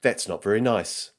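lightly voiced Australian assistant; a hint of Aussie-accented gadget voice; Aussie virtual assistant. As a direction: answer as an even Australian voice assistant. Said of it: "in a female voice with an Aussie accent".

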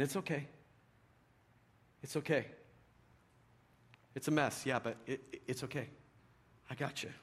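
reassuring a struggling man, gently; gentle reassurance. Retold or imitated. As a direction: comfort someone in a mess. Woman reaching out, soothing.

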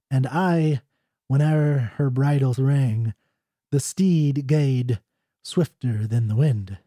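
measured recitation with pauses between lines; deliberate, formal verse reading; traditional ballad reading. Acted. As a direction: read an old Scots ballad aloud, line by line. Reads the ballad aloud.

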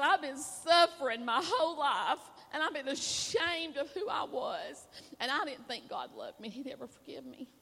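real emotion welling up in a retold confession; close to tears. Real, not acted. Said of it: "I'm gonna cry right now".

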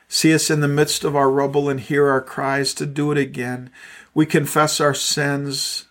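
pastor leading the congregation in prayer; closing prayer. Acted. Closing prayer led over congregation.

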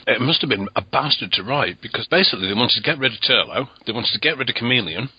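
eating while talking; mouth full. Real, not acted. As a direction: talk through a mouthful of food. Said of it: "I'm eating my tea at the same time here".

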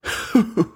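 short, high acted laugh. A narrator's reading. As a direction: laugh it off briefly. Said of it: "Father Daddy laughed".

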